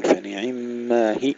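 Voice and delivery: "هي" cut to a short hi; wrong, dropped ya. Shown as a demonstration. Teacher shows a common mistake in stopping, ya cut short. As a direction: clip off the long vowel of "هي". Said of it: "هكذا بالحذف".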